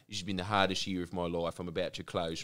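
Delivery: mock sad shopkeeper.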